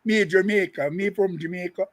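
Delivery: imitating a woman insisting she is Jamaican in patois; lightly mocking patois impression; half-hearted Jamaican accent parody. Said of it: "remember that Asian lady".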